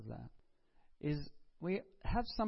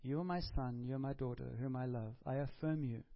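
soft, intimate affirmation, softer; affirming father; 3 semitones lower, 4 dB quieter than usual. Retold or imitated. The Father affirming someone in the congregation, soft and tender. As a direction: speak the blessing softly over them.

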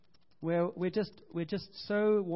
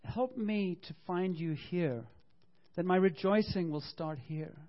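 prayer example; 2 semitones higher, slower than usual. Shown as a demonstration. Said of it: "just say to him".

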